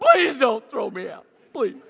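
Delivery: put-on crying, desperate, high, loud and tearful. Retelling being stopped for running by a guard: imitating own past crying plea. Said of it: "I start crying and go".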